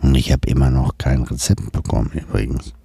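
movie trailer voice. Shown as a demonstration. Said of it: "mit dieser Stimme vorlesen".

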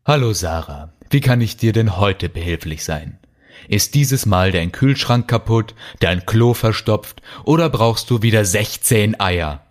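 understated, uninterested politeness; bored. Acted. Kalle greets his annoying neighbour at the door, bored. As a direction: ask as if through a tired routine. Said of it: "fragte Kalle gelangweilt".

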